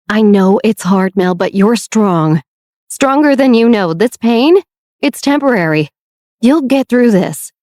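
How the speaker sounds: firm, steady comfort for a hurting sister; reassuring. Acted. Beatrix reassuring her suffering sister, firm and comforting. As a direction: hold her up with your voice. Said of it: "Beatrix reassured her sister".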